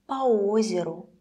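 "по озеру" said "pa-O-zeru"; po before stressed o. Shown as a demonstration. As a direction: open a then stressed о in "по озеру". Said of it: "it would sound like this".

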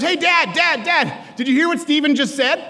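put-on excited kid. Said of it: "He goes".

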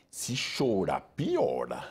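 a hint of a mother's threat, voice dropping low; mock-warn the child it gets worse; threatening mother. Mother scolding crying child, a low mock threat. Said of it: "você fala".

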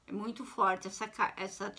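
speaking through hiccups; hiccuping. Real, not acted. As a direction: hiccups breaking up the sentence. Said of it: "eu tô com soluço aqui".

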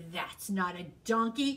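cried. Acted. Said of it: "cried Bear".

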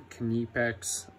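Knipex said kuh-NEE-pex; sounded K. Shown as a demonstration. Tool owner showing viewers the brand name, Knipex as kuh-NEE-pex. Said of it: "that's how you say it".

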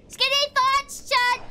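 high, drawn-out playful cry; thin, high rallying call to chat; playful squeak. Pretend. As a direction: squeeze it out high and slow. Squeezing past, playful self-coaching.

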